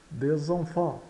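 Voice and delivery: "Des enfants" run together as "dê-zan-fan"; S liaison. Shown as a demonstration. Teacher repeats the link for learners, Des enfants with Z liaison. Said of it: "Tá aqui a ligação".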